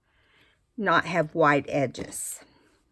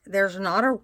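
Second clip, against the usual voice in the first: interrupted by a hiccup; talking through the hiccups. Real, not acted. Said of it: "I keep hiccuping".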